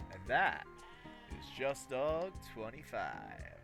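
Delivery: slow, booming ring announcer hype; fighting game announcer. Pretend. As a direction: drag out the name like a fight intro. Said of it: "Everybody has an announcer voice".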